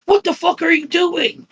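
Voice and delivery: high, shocked yell of a horrified mother; mother's shocked yell. Retold or imitated. Mother on the patio catching her at the pool, shocked yell. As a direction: throw it out like you just walked in on something awful.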